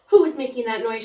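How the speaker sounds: loud, demanding question; stern librarian demanding. A narrator's reading. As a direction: call out who made the noise. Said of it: "she demanded".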